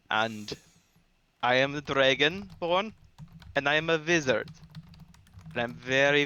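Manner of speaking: hammed-up bad Swedish accent; a clumsy put-on Swedish lilt on every word; terrible Swedish accent. Player introducing his Dragonborn wizard in a bad Swedish accent. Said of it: "in my terrible, terrible Swiss, Swedish accent".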